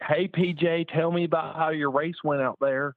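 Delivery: high, hammed-up young interviewer; exaggerated old reporter voice. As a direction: ham up a cheesy race reporter. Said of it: "just so exaggerated and so bad".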